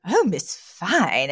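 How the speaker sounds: slow, lingering lovestruck purr; horny Mister Sheffield. Retold or imitated. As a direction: imitate the boss drooling over the nanny. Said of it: "Mister Sheffield is, he's playing horny".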